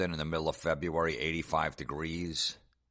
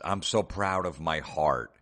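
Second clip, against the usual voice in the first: mock-sentimental reading; 2 semitones higher, 3 dB louder, slower than usual. Reading a sappy meme aloud.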